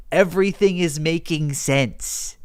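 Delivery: slowed down for emphasis; measured, stretched-out repeat; slow realisation. Real, not acted. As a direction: spell out the realisation slowly. Repeats realisation slowly for effect.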